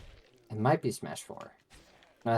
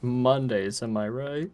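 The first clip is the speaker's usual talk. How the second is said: raised-pitch cheesy quip, rising at the end; sitcom punchline; 4 semitones higher, 3 dB louder, slower than usual. Acted. Gutted victim looks to camera, cheesy comic quip. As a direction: deliver a hammed-up line to camera. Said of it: "looks to camera and goes like".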